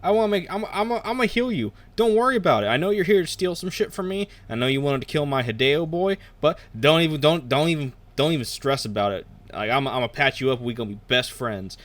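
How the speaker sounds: put-on high, airy party-girl voice; Three Jane voice. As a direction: chirp it out like a carefree party girl. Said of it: "She's like".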